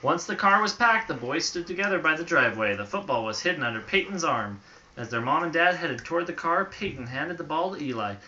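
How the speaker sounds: storybook read aloud; reading to children. A narrator's reading. Parent reading a bedtime story to a child, storybook voice. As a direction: read it gently to a little listener.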